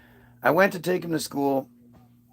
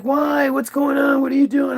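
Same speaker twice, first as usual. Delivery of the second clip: much higher, pestering questions; imitated insistent mom; 9 semitones higher than usual. Mom who keeps bugging departing dad, imitated insistence. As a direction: pitch it way up, imitating a persistent questioner.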